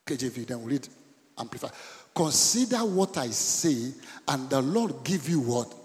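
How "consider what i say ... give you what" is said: slow scripture reading. Acted. Pastor reads scripture aloud slowly.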